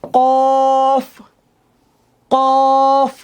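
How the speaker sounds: কফ from deep in the throat; কফ with a deep Arabic qaf. Shown as a demonstration. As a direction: push কফ from far back in the throat. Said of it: "কফ একটু ভিতর থেকে আসবে আওয়াজটা".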